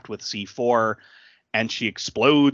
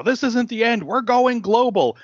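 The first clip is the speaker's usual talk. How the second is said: grandiose villain; 11 semitones higher, 5 dB louder than usual. Retold or imitated. Retelling the villain's declaration to his co-host, hammed-up grandiose voice. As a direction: announce it like a mad tyrant.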